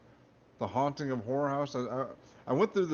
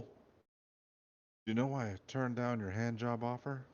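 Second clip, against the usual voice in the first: put-on slow, softer Russian accent for the commander; Russian accent, slow and sinister; slow menacing Russian commander; 5 dB quieter, slower than usual. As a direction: lean in slowly with a heavy Russian menace. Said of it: "the Russian accent there".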